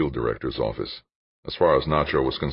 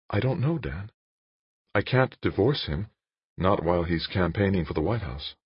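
higher woman's voice, understated distress; Jane, distraught; 4 semitones higher, 3 dB quieter than usual. A narrator's reading. Jane tells Dan she can't divorce, higher distraught voice.

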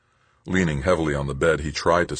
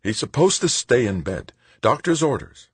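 higher, insistent medic voice, a touch gruff; 8 semitones higher than usual. A narrator's reading. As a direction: grumble the orders stubbornly. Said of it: "the medic said gruffly".

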